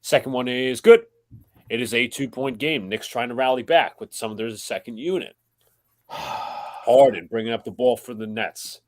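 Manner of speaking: steady broadcast call of the game; live play-by-play. Acted. Host calling the Knicks-Nets game for the stream, play-by-play. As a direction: call the action as it happens.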